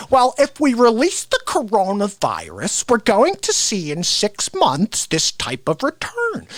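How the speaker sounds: slow, lightly voiced celebrity impression; measured impersonation, stretched-out words; Bill Gates. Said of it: "celebrity impressionist ... Bill Gates would be doing this".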